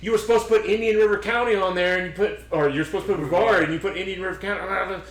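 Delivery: high, insistent scolding quote; imitated cussing out. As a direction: imitate an official chewing someone out. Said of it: "she was cussing me out".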